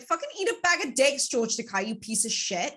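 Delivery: imagined rant, shouted high and loud; mock furious outburst. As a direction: yell it at George Takei like you mean it. Cursing out George Takei.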